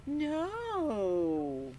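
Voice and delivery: defiant no. Pretend. Thomas refuses the stern principal, defiant. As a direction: refuse him flatly. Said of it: "let's hear you".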